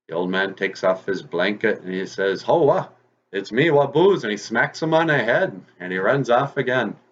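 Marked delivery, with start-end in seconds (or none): 2.4-4.2 high, raised-voice exclamation; triumphant rabbit reveal. Acted. Old man takes off his blanket, revealing rabbit, triumphant. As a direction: call it out high as the disguise comes off.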